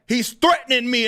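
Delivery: high-pitched mimicry of a complainer; mock alarm. Streamer quoting his accuser's claim, mock alarm. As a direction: imitate a whiny accuser, lightly hammed up.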